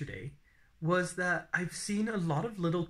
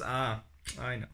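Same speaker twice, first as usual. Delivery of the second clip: hostess imitation; 4 semitones lower than usual. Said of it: "the lady goes".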